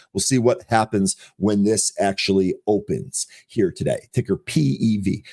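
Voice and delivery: hoarse, strained voice; losing voice. Real, not acted. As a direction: voice going hoarse. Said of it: "I'm losing my voice here".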